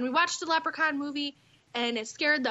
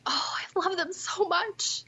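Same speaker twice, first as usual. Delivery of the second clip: slow, higher-pitched gush; gushing affection; 6 semitones higher, slower than usual. Acted. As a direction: gush with drawn-out adoration. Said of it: "you know, you're like".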